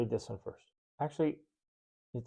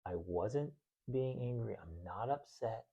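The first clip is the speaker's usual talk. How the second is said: defensive mutter; 10 dB quieter than usual. Retold or imitated. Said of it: "I'm like".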